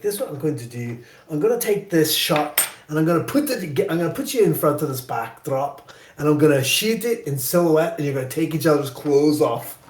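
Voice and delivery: mimicked Scottish director; Scottish brogue. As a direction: imitate a Scottish director giving instructions. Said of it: "he has this great brogue".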